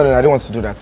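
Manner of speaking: ordinary talk, nothing marked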